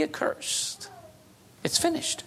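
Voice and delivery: awed whisper of finality; hushed whisper. Acted. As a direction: whisper it, almost no voice. Preacher hushes on key line.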